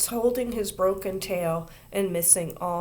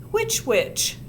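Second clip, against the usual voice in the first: puzzled question; 13 semitones higher, 3 dB louder than usual. A narrator's reading. Teacher asks.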